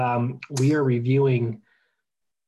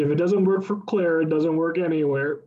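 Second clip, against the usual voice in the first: mock proverb; 3 semitones higher than usual. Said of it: "there's an old adage".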